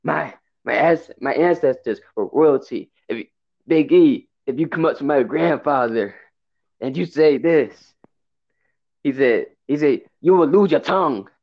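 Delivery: slow, put-on Nigerian accent; Apollo Cruz. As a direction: imitate a wrestler's deliberate, drawn-out Nigerian accent promo. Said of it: "I wish Cruz never did it in the accent".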